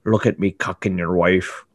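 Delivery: mocking Irish boast; Irish accent. Mock Irish villain gloating over the husband. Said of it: "pretty good Irish accent".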